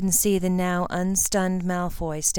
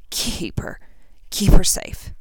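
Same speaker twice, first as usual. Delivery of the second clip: weak dying whisper; 4 dB louder, slower than usual. A narrator's reading. Dying Harry's last request.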